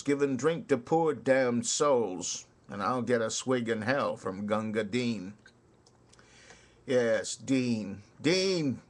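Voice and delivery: rhythmic ballad recital with swinging beat; poem recitation. Acted. Reciting Kipling's soldier ballad to listeners, rhythmic recital. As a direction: recite it like a barrack-room ballad.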